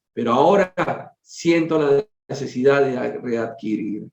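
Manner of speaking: measured, formal reading aloud; story narration. A narrator's reading. Reader telling a family's spiritual story to listeners, story narration. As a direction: read it out as a solemn tale.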